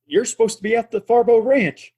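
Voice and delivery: shouting in surprise at the deputy; angry shout. Acted. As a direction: snap it out at him loud and high. Confronting the deputy at gunpoint.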